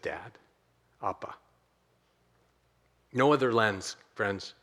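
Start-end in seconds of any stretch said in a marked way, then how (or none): 0.0-1.3 hushed, low, spaced words; very soft and low, with reverent pauses; intimate prayer. Retold or imitated. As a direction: speak it softly, as in private prayer. Voices Jesus' intimate prayer softly.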